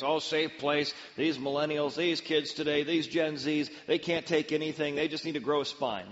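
lightly mocking scoffing voice; mocking critics. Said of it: "safe place has got a bad rap".

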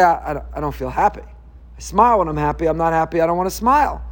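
low, sulky grumble, lightly voiced; mopey reluctance. Listener complaining he doesn't feel happy, mild sulky mumble. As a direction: play the reluctant listener who won't smile. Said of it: "Well, you say".

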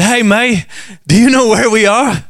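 a light, admittedly bad Australian accent. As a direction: tourists in Australia asking directions, weak Australian accent. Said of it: "I don't have a good Australian accent".

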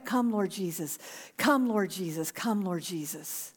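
soft prayer fading away; quiet prayer. Shown as a demonstration. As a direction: pray it under your breath, fading. Softly repeated prayer again.

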